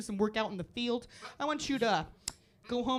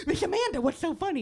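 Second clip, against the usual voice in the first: put-on high kid voice; curious kids; 8 semitones higher, 4 dB louder than usual. Preschoolers asking the teacher why she laughs, high. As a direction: ask it like an eager preschooler. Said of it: "'cause they're like".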